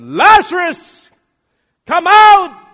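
huge high-pitched commanding shout; booming drawn-out summons; full shout. Acted. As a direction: call the dead out at full volume. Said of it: "And Jesus shouted".

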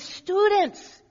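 high, loud call of "Students"; "Students" called out high and ringing, like a professor grabbing the room. Retold or imitated. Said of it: "he would speak with a French accent".

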